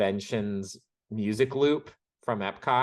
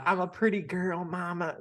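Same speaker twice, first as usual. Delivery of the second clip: mock pageant girl; 4 semitones higher than usual. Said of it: "Jen is turning into Jennifer".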